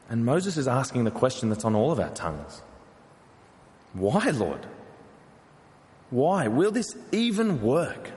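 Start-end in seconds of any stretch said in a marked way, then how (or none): 3.9-8.1 pleading lament. Retold or imitated. Moses pleading with God.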